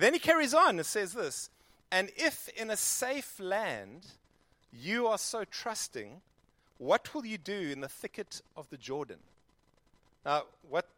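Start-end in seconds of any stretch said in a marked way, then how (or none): 1.9-9.2 slow, measured Bible reading; scripture reading. A narrator's reading. Preacher reading Jeremiah to the congregation, slow and measured. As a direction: read the verses with weight.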